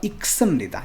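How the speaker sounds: इक्सम निदा said without any l sound; silent l. Shown as a demonstration. Teacher demonstrating to students the silent l in इक्सम निदा. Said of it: "इसमें ल जो है, वो silent है".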